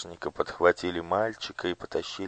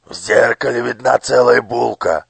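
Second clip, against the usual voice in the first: louder, smug, hitting «целая»; smirking overseer; 5 semitones higher, 13 dB louder than usual. A narrator's reading. Overseer smirks at the mirror's whole loaf. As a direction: smirk as you point out «целая булка». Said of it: "усмехнулся надсмотрщик".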